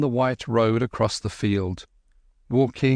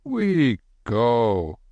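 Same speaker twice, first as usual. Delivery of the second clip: quiet dignity. A narrator's reading. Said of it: "with quiet dignity".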